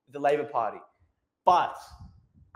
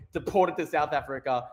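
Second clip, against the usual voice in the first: usual speaking voice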